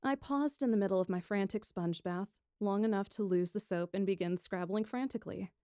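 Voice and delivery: usual speaking voice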